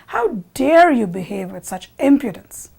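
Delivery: mildly acted indignant outburst; enraged. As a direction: scold in outrage at the insolence. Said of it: "gets so enraged".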